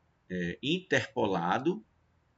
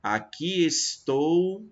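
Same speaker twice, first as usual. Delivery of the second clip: slow scansion; 5 semitones higher, 4 dB louder, much slower than usual. Shown as a demonstration. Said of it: "Então, você vai ter".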